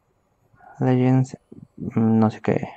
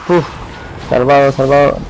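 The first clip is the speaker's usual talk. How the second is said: excited call; 3 dB louder than usual. Real, not acted. Caster calls a close escape.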